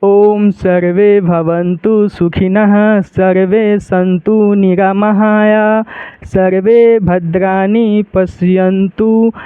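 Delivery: slow, even mantra chant; steady recitation. Shown as a demonstration. Teacher reciting the whole mantra in one go. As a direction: keep a steady recitation pace. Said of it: "speed में पढ़ते हैं".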